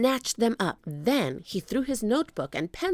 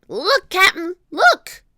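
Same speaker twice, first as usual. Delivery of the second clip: high, loud excited call; excited yell climbing higher; gleeful shriek; 11 semitones higher, 11 dB louder than usual. A narrator's reading. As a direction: shout it high, thrilled at a find. Pinky shrieks about found treasure.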